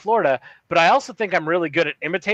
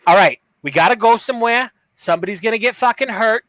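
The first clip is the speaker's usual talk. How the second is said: put-on Boston accent; 4 semitones higher than usual. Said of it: "I got the Boston accent in my head".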